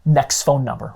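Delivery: a hint of a weary agent's inner voice; deflated inner groan. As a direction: sigh it to yourself after a rejection. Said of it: "the agent inside's thinking like".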